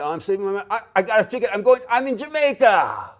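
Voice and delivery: building to a loud, high cry of triumph; mock elation. Acted traveller's building glee at Jamaica.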